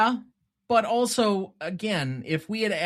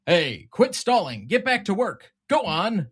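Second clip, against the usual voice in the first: bossy yell; 4 semitones higher, 4 dB louder than usual. Retold or imitated. Boss barks at worker on screen.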